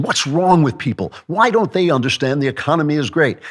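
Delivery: high, indignant mock of the press; mocking media voice. Mocking the media's baffled, indignant pitch. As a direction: sneer as a baffled pundit would. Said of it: "media stories saying".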